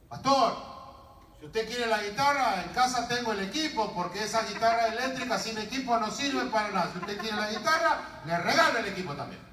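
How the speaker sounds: retold shout carrying from the back; imitated calling out. Lad offering the pastor his guitar amp, calling out. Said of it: "el muchacho gritó desde allá atrás".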